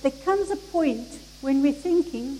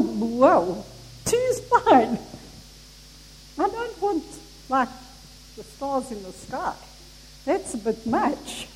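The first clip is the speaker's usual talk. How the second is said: hammed-up alarm easing into reluctance; retold panic; slower than usual. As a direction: play at backing out of a deal. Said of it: "I panicked".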